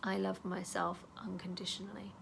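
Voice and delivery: calm self-talk while tapping; gentle affirmation. Shown as a demonstration. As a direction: say it tenderly to yourself. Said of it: "I'm gonna tap there and say".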